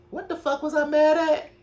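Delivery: lightly mocking self-confusion; retold baffled question. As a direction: realize mid-argument you forgot why you're mad. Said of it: "I'm like".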